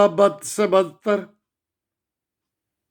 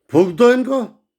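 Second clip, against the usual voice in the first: furious command; 3 semitones higher than usual. Real, not acted. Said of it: "घर में बैठा आग बबूला हो रहा हूं".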